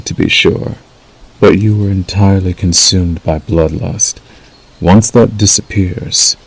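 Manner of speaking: measured, unhurried wolf mentor role; lightly voiced werewolf guiding a new packmate. Acts wolf role to listener.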